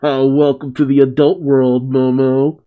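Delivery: mock chuckle breaking into the words; laughing it up. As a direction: tease with an acted laugh up front. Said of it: "are laughing it up".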